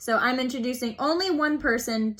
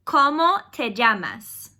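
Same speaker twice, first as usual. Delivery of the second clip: ¿Cómo te llamas? said slowly for repetition; slow model question; 4 dB louder, slower than usual. Shown as a demonstration. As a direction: spell it out slowly for students. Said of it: "You can repeat after me".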